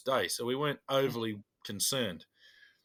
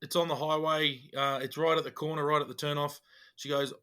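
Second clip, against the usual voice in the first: animated; 3 semitones higher than usual. Retold or imitated. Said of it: "quite animated".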